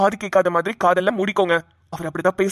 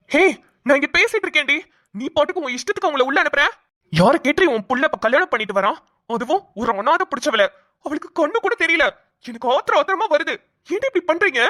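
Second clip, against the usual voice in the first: angry shouting; 4 semitones higher than usual. Acted. Father shouts at wife.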